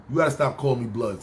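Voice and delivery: quick, firm warning; firm retold complaint. Telling a coworker to stop calling him blood, firm. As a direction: set him straight, fast but not shouting. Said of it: "Yo, listen".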